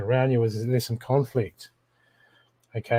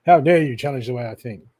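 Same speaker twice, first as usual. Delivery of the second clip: mock indignant ego; 5 dB louder than usual. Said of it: "ego says".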